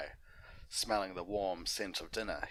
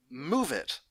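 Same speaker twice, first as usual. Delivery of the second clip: much louder, higher snapped order; impatient shout; 8 semitones higher, 8 dB louder than usual. Acted. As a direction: brush him off rudely. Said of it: "greeted with shouts of".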